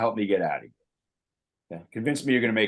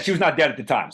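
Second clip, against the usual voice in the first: strained, choking on a drink; forcing words out while choking; 4 semitones higher, 4 dB louder than usual. Real, not acted. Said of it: "Sorry, I'm choking over here".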